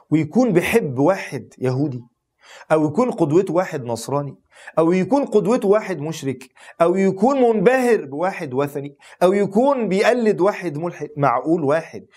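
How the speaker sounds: building indignant questions. Real, not acted.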